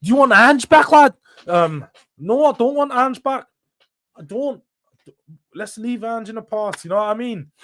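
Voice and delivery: mock Scouse accent. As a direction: put on a Liverpool accent, lad. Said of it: "how's my Scouse accent?".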